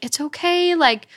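a hint of a kind older driver calming you; sweet lady. Sweet pregnant woman forgiving the nervous young driver, gentle. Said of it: "the sweetest lady".

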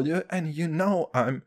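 ordinary delivery

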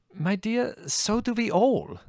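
put-on high, accented Greek lady, matter-of-fact; a lively foreign lady explaining the plan; Lena's voice. A narrator's reading. Lena's reply.

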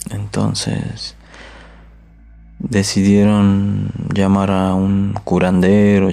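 ordinary delivery

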